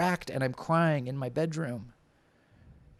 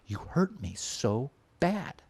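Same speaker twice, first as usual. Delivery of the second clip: wounded drama; 3 semitones higher, slower than usual. Retold or imitated. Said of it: "the flavor of drama in that relationship".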